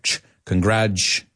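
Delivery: "congrats" cut short on a ch, con-gratch; ch sound. Shown as a demonstration. Teacher drilling the T U sound, "congrats" ending in ch. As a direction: isolate the ch, then say "congrats" ending on it. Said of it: "we love that T U".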